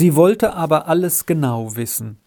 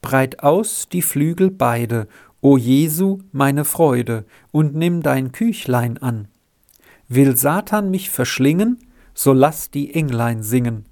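recited prayer. Retold or imitated. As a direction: say the bedtime prayer like a devout child. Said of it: "und ich habe gebetet".

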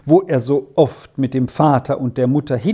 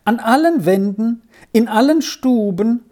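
put-on high, anxious boy listing losses; mildly quavering, high-pitched child's worry; trembling voice; 6 semitones higher than usual. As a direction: keep asking in a high, troubled young voice. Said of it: "fragte er mit bebender Stimme weiter".

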